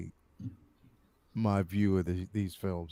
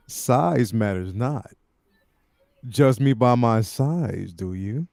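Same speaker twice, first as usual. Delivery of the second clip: sleazy; 3 semitones lower, slower than usual. Pretend. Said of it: "The most sleazy and lascivious way possible".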